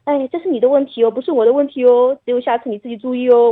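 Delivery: light, singsong scolding with a trailing 哦; half-joking mother nudging her son; playful teasing tone. Retold or imitated. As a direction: tease the child gently, no real blame. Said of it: "这种，这种语气跟他讲嘛".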